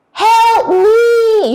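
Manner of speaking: high, loud drawn-out plea; acted distress call; cry for help. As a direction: call out desperately as the choking wolf.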